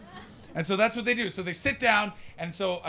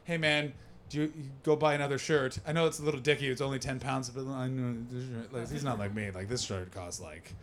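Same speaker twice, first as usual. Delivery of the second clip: softer, lower, apologetic aside; sheepish peace offering; 4 semitones lower, 6 dB quieter than usual. Retold or imitated. Comedian offers ten pounds to the man he soaked, sheepish low voice. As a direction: bring it down low and trail away awkwardly. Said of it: "and I was like".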